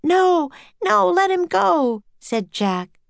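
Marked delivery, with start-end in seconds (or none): 0.0-2.0 high pleading call; urgent protest. A narrator's reading. Jack begging for the octopus's release, urgent protest. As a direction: object in a high raised voice.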